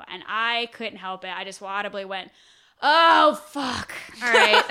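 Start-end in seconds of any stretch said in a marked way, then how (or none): 2.8-4.6 a sudden blurted curse, pitched up; loud exasperated oh fuck. Retold or imitated. Telling cohost how she swore aloud in line, sudden loud exclamation. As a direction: blurt it out before you can stop. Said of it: "like, so loud".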